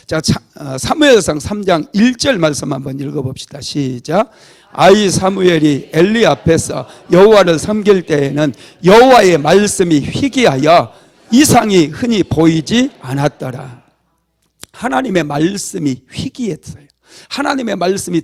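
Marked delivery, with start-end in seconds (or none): 4.7-13.8 scripture reading. Acted. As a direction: read the verse out together, deliberately. Congregation reads scripture aloud.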